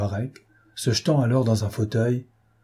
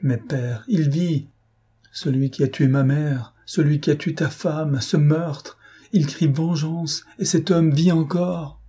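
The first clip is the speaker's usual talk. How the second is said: rising higher, slow and fierce on vengeance; hateful energy; 4 semitones higher than usual. Retold or imitated. Daughter crying out to her father for vengeance, fierce and higher. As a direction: daughter demanding vengeance on the killer. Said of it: "avec l'énergie de la haine".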